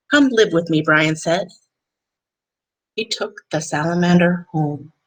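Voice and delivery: gentle, even read-aloud voice; calm picture-book narration; storybook reading. Acted. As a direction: read it to a class of kids.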